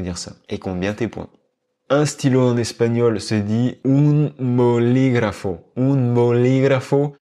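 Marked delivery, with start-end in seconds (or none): 1.9-7.2 "bolígrafo" stressed on "lí". Shown as a demonstration. Teacher models stress on "lí" of "bolígrafo" for students. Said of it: "On accentue donc la deuxième syllabe".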